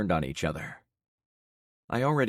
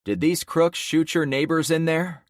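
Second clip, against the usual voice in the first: urgent questioning; 10 semitones higher, 6 dB louder than usual. Acted. Protagonist questions crowd.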